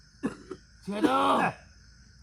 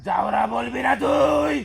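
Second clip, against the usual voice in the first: slow, stretched warning shout; drawn-out angry yell; 3 dB louder, slower than usual. Acted. Spirit forbidding exorcist's insult, drawn-out angry yell. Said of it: "বেশি চিল্লাবি না".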